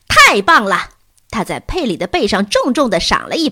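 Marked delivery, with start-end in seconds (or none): 0.1-0.9 a big hearty yell of praise; loud cheer. A narrator's reading. Bruno leaps on stage and yells praise to the audience. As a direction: shout it out, louder, delighted. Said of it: "大声喊道".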